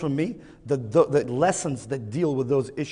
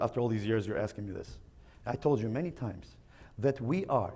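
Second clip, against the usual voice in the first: lower, softer fed-up dad voice; a tired father lecturing, a bit lower; weary father camel; 3 semitones lower, 8 dB quieter than usual. Acted. Camel father scolding his son, softer and lower.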